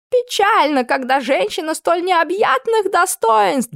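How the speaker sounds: squeaky excuse. Acted. Camp cook excusing himself to the cook, squealing.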